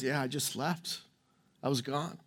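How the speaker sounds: hushed, near-whispered retelling of his tears; tearful hush. Retold or imitated. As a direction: voice the man's fragile words very softly. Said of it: "he starts crying".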